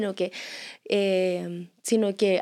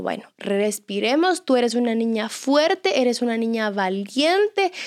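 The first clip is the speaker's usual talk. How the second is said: slow, deliberate encouragement; reassuring mother; slower than usual. Retold or imitated. Mom bolstering her crying daughter at drop-off, slow reassurance. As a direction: spell out each praise slowly for a child.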